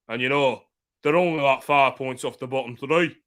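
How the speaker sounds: put-on Yorkshire football chat; Yorkshire accent. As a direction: keep up a mock Yorkshire accent. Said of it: "putting it on in a Yorkshire accent".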